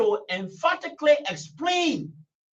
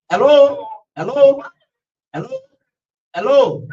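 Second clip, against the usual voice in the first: loud hello into the phone line; calling out; 2 semitones higher, 9 dB louder than usual. Real, not acted. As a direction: call out to check the caller is there. Host calls out to silent caller.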